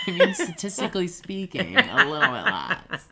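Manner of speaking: high laughing voice. Real, not acted. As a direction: say it through laughter. Jokes while laughing.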